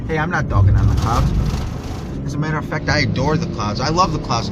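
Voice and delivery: loud defensive rebuttal. Real, not acted. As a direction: push back hard at the critics. Rebutting imagined critics.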